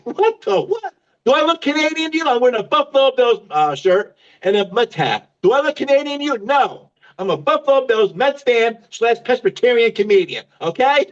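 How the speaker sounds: high-pitched mock outrage, words tumbling fast; ranting at the clerk. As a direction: blow up at the clerk in a comic rant. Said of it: "I caused such a ruckus".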